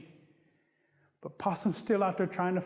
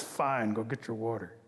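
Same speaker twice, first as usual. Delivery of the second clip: grudging Bear; 7 semitones lower than usual. Acted.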